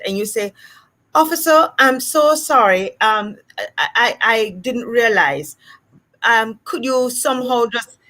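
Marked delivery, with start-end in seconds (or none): 1.1-8.0 apologetic, careful standard English, hesitant; code-switched apology. Acted. Driver stopped by police asks for a warning, code-switched apology. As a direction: plead politely with the officer. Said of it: "you decide to code switch in this situation".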